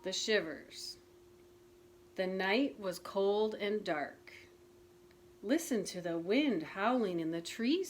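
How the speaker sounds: put-on gentle storybook narration for children; reading a picture book aloud to listeners; story reading. A narrator's reading. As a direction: read it like a bedtime story. Reads Frog and Toad story aloud.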